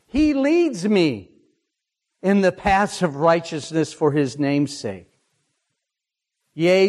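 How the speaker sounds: gentle sermon cadence; heartfelt psalm paraphrase. Acted. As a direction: speak the psalm as personal trust. Paraphrases psalm, hymn lines.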